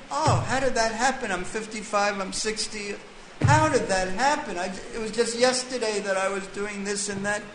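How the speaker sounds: a light dismayed gasp of disbelief, quick and high; mock surprise. An aging person discovering their age, mock astonished. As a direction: play someone suddenly stunned to find themselves old.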